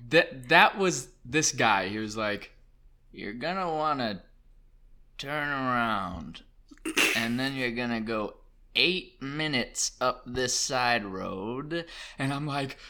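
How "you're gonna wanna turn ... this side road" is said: very slow, drawn-out directions; long pauses, stretch every word like a sloth; sloth-like old man. Retold or imitated. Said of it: "the sloth in Utopia".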